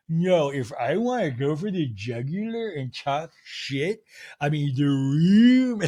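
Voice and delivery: slow, mannered mock threat; hammed-up affronted diva; Meredith impression. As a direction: stretch the words, swelling loud at the end. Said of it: "And Meredith goes".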